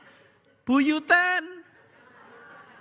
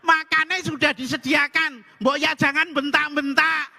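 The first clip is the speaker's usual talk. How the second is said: louder, higher, fed-up repeat; wife raises voice; 5 semitones higher, 3 dB louder than usual. Acted. Wife shouting to deaf husband about dinner, fed up. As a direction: shout the dinner call so he hears. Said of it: "Nek ngomong mbok yang keras".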